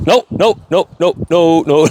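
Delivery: high, playful "no no no". Real, not acted. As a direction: tease her off it. Playful correction.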